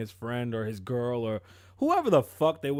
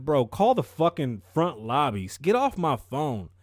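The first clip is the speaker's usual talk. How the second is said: louder, slow, fed-up dispatcher; annoyed operator; 5 dB louder, slower than usual. Retold or imitated. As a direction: shut the caller down.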